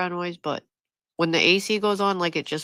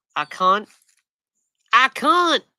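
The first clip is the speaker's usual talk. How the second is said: fake country accent, very slow and loud; 5 semitones higher, 7 dB louder than usual. Trying out how to say a word for the audience, in a country accent. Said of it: "Is that how you say can't in the country?".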